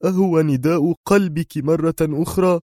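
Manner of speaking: mildly irritable question; nervous irritation. A narrator's reading. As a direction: needle her, irritated. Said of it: "ثم أضاف بنفس العصبية".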